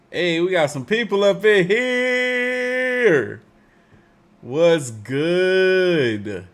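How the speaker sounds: high, slow, loud alien greeting. Pretend. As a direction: stretch it out like a space creature. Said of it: "I just exposed my alien voice to y'all".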